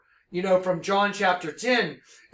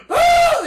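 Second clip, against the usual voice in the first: startled cry; 10 dB louder than usual. Real, not acted.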